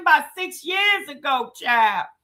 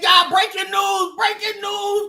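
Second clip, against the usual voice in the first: mock announcement; 4 semitones higher than usual. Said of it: "and we said".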